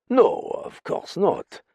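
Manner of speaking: smooth it over reassuringly; soothing. A narrator's reading. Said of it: "said Benkelin in a soothing voice".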